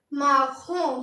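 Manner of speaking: माखों with a throaty r and nasal ending; French pronunciation of माखों; French marron. Shown as a demonstration. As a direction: say माखों as ma-khon, final n swallowed. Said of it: "इसको पढ़ेंगे हम".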